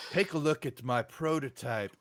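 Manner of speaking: put-on light French-accented officer. Officer presenting his tank prototype, light French accent. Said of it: "I'm loving the French accent".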